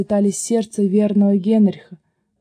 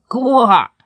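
croaking frogs; 3 semitones higher, 4 dB louder, much slower than usual. A narrator's reading. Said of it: "лягушки остались при своём".

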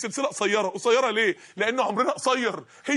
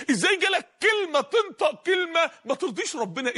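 rebuking shout; 5 semitones higher than usual. Acted. Preacher rebukes listeners in sermon.

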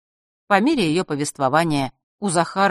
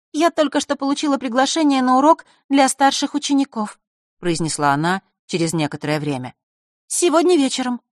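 put-on girl's voice; 8 semitones higher than usual. Zakharra voiced.

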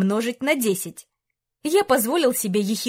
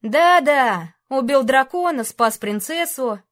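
sarcastic echo; 3 semitones higher, 4 dB louder, slower than usual. Acted. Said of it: "едкая усмешка скривила мои губы".

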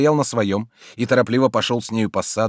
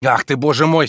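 louder, impatient interrupting; 7 semitones higher, 9 dB louder than usual. A narrator's reading. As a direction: cut her off impatiently. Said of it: "с нетерпением перебил он". (нетерпеливо, перебивая)

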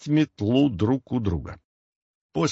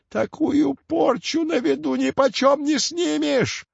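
creaky hag; 14 semitones higher than usual. A narrator's reading. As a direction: croak out the curse like an old crone. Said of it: "скрипучим голосом пообещала Яга". (скрипучий голос ведьмы)

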